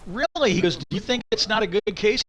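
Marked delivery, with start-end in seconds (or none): 0.1-0.5 high-pitched mock disbelief; shocked. Host retells a lawyer's shock at his old boss, shocked. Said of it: "like, shocked, and he goes". 0.8-2.2 higher-pitched incredulous question, retold; shocked. Host retells the follow-up question to the old boss, shocked. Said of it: "like, shocked, and he goes".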